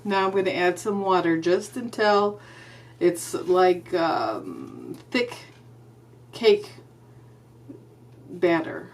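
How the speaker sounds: talking muffled through a face mask. Real, not acted. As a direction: mouth covered, words muffled. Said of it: "my words are gonna sound muffled because my mouth is covered by the mask".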